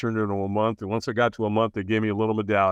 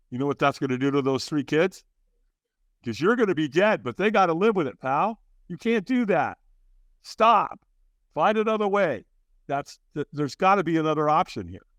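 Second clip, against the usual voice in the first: urgent inner voice; 6 semitones higher than usual. Retold or imitated. Inner voice stopping his suicide.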